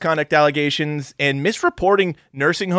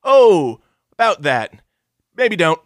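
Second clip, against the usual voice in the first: louder, breezy brush-off; dismissive royals; 2 semitones higher, 6 dB louder, slower than usual. Retold or imitated. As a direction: wave her concern away lightly. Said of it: "they're like".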